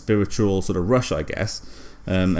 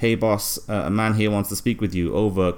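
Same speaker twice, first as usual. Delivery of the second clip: walkie-talkie impression. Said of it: "that's my walkie-talkie impression".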